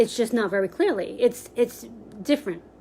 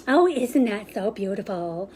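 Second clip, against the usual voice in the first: teasing; 3 semitones lower than usual. Shown as a demonstration. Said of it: "being facetious and you're kinda teasing".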